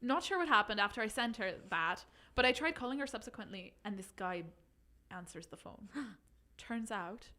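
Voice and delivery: put-on reading in a light Irish accent; a gentle Irish lilt throughout. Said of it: "do you think I could do it in Irish?".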